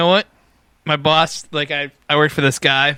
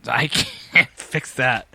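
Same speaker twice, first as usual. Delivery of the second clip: put-on strained Maine accent; much slower than usual. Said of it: "you sound constipated".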